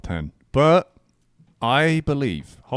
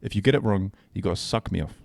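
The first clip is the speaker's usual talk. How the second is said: clickbait video narrator. Shown as a demonstration. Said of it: "just say it a bit enthusiastically".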